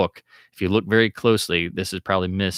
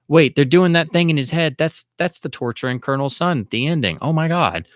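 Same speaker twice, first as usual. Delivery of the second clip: stunned recognition; 7 semitones higher than usual. Retold or imitated. Fan recalls spotting the Colonel Sun torture, mildly amazed. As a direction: catch yourself realizing it mid-scene. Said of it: "I'm like".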